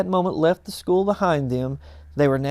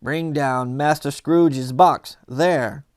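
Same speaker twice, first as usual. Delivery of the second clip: terrible voice; slower than usual. Acted. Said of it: "A terrible voice in the hall cried".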